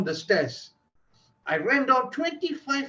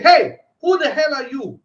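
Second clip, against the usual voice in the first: angry yell, pitch higher and louder; furious shout; 5 semitones higher, 8 dB louder than usual. Retold or imitated. Guest yelling at the intruder in his hotel room, furious shout. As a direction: bark it at the stranger in the room. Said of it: "But I was furious".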